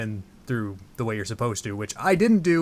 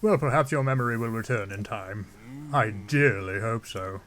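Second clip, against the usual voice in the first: King Dorephan. Acted. Zora king hopes Link's memory returns, stately voice. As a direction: speak as a stately king voicing a hope. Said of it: "I don't know why I'm giving him that voice".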